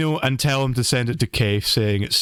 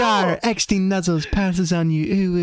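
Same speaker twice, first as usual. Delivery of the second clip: cutesy uwu voice; 3 semitones higher than usual. Shown as a demonstration. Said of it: "you were supposed to read it like".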